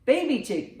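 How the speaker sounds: ordinary delivery, nothing marked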